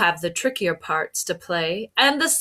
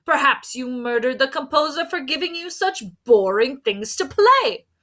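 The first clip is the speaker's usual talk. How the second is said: high, accusing detective voice; inspector; 6 semitones higher, 4 dB louder than usual. A narrator's reading. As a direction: point the finger with glee.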